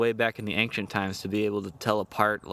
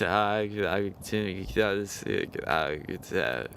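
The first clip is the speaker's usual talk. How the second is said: concussed losing fighter; much slower than usual. Acted. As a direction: play a dazed fighter who can't form a sentence. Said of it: "They're concussed".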